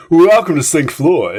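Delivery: mock radio welcome, drawn out; fake showbiz voice. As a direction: announce it like a cheesy showbiz host. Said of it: "put on my fake showbiz voice".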